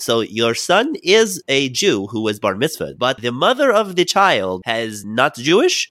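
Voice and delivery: a light hint of an old Brooklyn rabbi's Yiddish accent, slow. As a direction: play the rabbi mildly with a Yiddish lilt, slowly questioning. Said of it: "should I do the accent".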